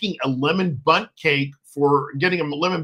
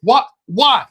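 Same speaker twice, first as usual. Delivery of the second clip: louder, hammed-up protest; mock outrage; 5 semitones higher, 5 dB louder, much slower than usual. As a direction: pretend to be scandalized. Mock outrage at huge book.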